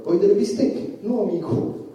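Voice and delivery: pharmacy man. Retold or imitated. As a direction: offer it up high and eager. Pharmacy man in broken Italian.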